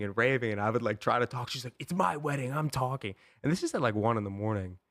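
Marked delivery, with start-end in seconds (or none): 1.8-3.1 higher, put-on bossy bride; a lightly hammed-up entitled bride; mock bride cutting off. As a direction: imitate her silencing him. Bride cutting him off on phone.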